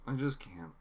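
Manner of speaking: high, despairing pleading; a broken man who can't get the blood off; distraught. Retold or imitated. Newsom's breakdown quoted.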